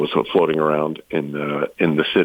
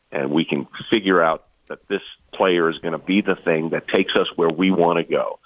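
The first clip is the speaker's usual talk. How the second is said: a lightly imitated thick Scottish accent. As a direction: retell the Scot's words in a mild Scottish brogue. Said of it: "and he did it in his thick Scottish accent".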